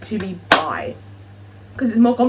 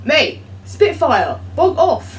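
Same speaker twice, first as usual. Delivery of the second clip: loud, slow, then high on bog off; yelling at a plane; 7 semitones higher, 4 dB louder, much slower than usual. Real, not acted. Shouting at a loud plane flying overhead, annoyed yell. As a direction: tell the plane off loudly.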